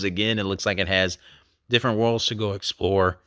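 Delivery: hoarse, strained voice; losing voice. Real, not acted. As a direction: voice giving out mid-sentence. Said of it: "losing my voice".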